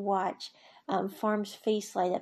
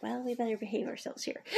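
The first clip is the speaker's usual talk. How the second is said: laughing; faster than usual. Retold or imitated. Kid walks in, joking aside.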